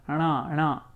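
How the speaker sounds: rana, retroflex na. Shown as a demonstration. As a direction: curl the tongue back for na. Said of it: "you're doing the cerebral of it".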